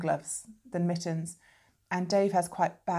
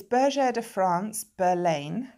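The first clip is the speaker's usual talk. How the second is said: French pronunciation of the brand name, raised and firm; French accent; 5 dB louder, slower than usual. Shown as a demonstration. Knitter reads the yarn label to viewers, best French accent. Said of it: "That's my best French accent".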